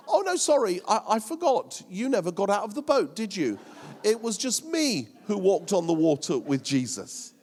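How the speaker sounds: mock-apologetic boast, then fast and pointed; smug Peter. Peter gloats to the other disciples, mock-sorry and fast. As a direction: rub it in that they never left the boat. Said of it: "I bet Pete said".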